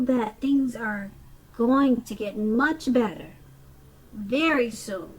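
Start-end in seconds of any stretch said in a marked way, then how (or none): 4.1-5.1 "very soon" said deliberately, weight on "very"; emphasis on very soon. Real, not acted. Card reader reassuring a listener about better times, emphatic "very soon". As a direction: lean on "very" and let "soon" land firmly. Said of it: "I emphasize the word very soon".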